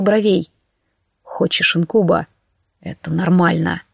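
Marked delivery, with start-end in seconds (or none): 1.2-3.8 demon's low voice. A narrator's reading. The demon reassures Olivia, low and husky.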